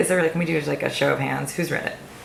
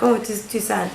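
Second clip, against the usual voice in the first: mocking French critics; 6 semitones higher than usual. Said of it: "the French also were like".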